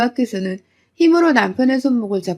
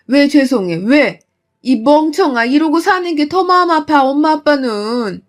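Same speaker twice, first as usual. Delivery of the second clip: loud, higher upset scolding; angry scolding; 3 semitones higher, 4 dB louder than usual. Retold or imitated. Mother scolding her daughter for apologizing, upset and loud. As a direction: berate her out of hurt.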